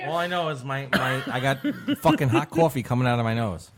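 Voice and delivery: laughing through the words; breathless giggles mid-sentence. Real, not acted. Laughing after coffee came out nose.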